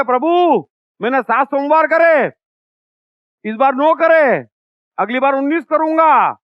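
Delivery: mock loud prayer. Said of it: "खूब चिल्लाते थे".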